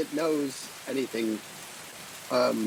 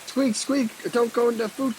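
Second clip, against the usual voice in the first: mock bunny squeak; 6 semitones higher, 3 dB louder than usual. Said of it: "bunny speak".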